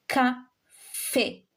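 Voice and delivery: "café" in two slow, separate syllables, ka, fé; teacher spelling out "café" syllable by syllable; accented final é. Shown as a demonstration. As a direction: sound the final é of "café" clearly. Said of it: "because of the accent".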